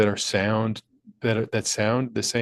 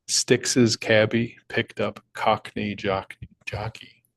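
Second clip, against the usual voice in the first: stumbling slowly through the tongue twister; slow careful read; slower than usual. Shown as a demonstration. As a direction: read it slow and deliberate, tripping on jockey. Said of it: "Tongue twister".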